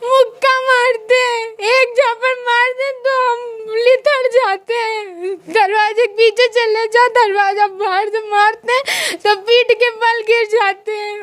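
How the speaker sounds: tearful voice that keeps breaking; pushing words out through sobs; real crying. Real, not acted. Woman telling the counselor how her husband beats her, crying. Crying while describing beatings.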